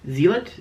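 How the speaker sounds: "Zealot" as ZEE-lit, rising questioningly; questioning "Zealot", second syllable short; trying a pronunciation. Shown as a demonstration. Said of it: "Is that how you say it?".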